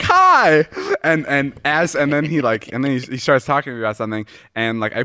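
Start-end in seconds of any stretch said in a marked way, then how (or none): 0.0-0.7 high, loud little starstruck greeting; starstruck squeak. Retold or imitated. Greeting a movie star on the phone, high starstruck squeak. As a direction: squeal it out, pitched way up.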